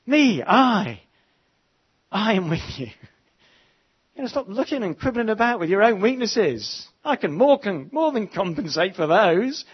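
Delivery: exasperated God. Acted. God scolding the doubting prophet, exasperated and forceful. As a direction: take the doubter to task, hammering each point. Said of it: "And God says".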